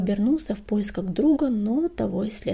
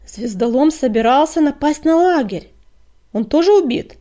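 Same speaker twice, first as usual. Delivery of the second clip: loud, higher, urgent outburst; forceful demand; 6 semitones higher, 12 dB louder than usual. A narrator's reading. Deputy asks about the attacker, loud and urgent. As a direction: raise your voice and demand an answer.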